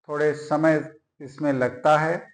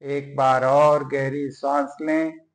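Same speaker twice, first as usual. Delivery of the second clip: measured meditation voice with long pauses between phrases; guided yoga nidra. Acted. Teacher guiding lying listeners through breathing and prayer, measured meditative delivery. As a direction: guide them into relaxation, phrase by phrase.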